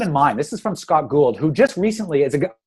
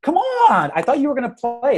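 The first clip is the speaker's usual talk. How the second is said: put-on high, loud pleading child's voice; a much higher little girl begging to play; whiny child; 12 semitones higher, 5 dB louder than usual. Daughter begs distracted dad to play, loud high whine. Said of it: "she'll be like".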